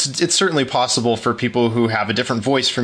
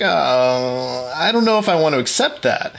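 retold hesitation; 2 semitones higher than usual. Guest recalls wavering over a free giveaway, hesitant. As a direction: mimic your own reluctant second thoughts. Retells own doubt about a gift.

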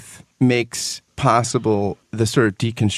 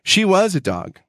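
measured, heartfelt book reading; reading a favorite book passage aloud to a co-host; earnest reading aloud. Acted. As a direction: read it like a treasured passage.

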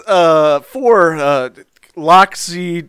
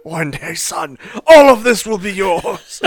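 mock tearful father. Mock father speech to figurines.

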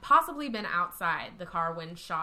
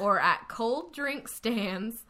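slow Texas drawl; Texas accent; 3 semitones higher, 4 dB louder, slower than usual. Pretend. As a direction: stretch it out Texas style. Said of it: "Texas accent".

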